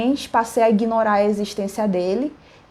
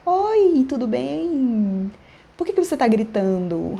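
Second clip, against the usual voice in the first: feigned serenity; 4 semitones higher, slower than usual. Retold or imitated. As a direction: greet him as if nothing had happened. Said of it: "essa paz de espírito".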